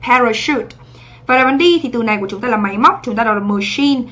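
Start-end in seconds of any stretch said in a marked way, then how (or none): 0.1-0.7 "Parachute" with ch said as sh; teacher repeating PA-ra-shoot as a model. Shown as a demonstration. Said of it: "này là âm sờ". 3.4-4.0 "machine" with ch said as sh; teacher modelling ma-SHEEN. Shown as a demonstration. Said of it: "cũng là âm sờ".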